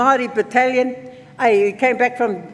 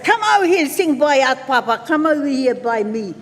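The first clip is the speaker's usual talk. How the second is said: calling out; 3 semitones higher than usual. Retold or imitated. Children calling Papa to come sing, beckoning call.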